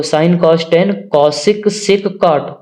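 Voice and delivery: very slow, stretched memory chant; drawn-out recital. Shown as a demonstration. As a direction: stretch every ratio name out for the class. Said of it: "इसका मतलब पहले cosec याद करना". (बहुत धीरे खींचकर रटवाना)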